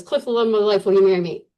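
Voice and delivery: rushed through the note; reading it off in a hurry; read too quickly. Retold or imitated. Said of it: "really quickly".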